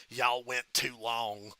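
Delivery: slow, tired drawl with a sigh before it; Michael Hayes impression. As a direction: drag it out like a weary boss. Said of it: "Michael Hayes goes".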